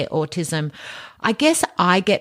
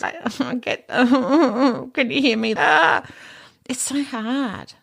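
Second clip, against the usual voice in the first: laughing; 5 semitones higher, slower than usual. Real, not acted. Laughs mid-sentence at herself.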